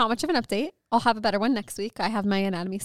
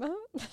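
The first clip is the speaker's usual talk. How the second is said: soft, high fake laugh; 9 semitones higher, 9 dB quieter than usual. Co-host filling a gap in the chat, laughing fakely. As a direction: force out a small, unconvincing laugh. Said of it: "that was the fakest laugh".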